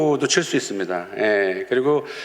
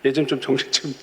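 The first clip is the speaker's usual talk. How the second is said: urgent prayer. Retold or imitated. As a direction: drag the words out, begging God. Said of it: "막 기도합니다".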